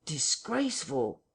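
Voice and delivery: slow, drawn-out repeat; eavesdropper's echo. A narrator's reading. Henfrey repeats Bunting's word to Hall, slowly drawn out. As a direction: draw the word out, echoing what was overheard.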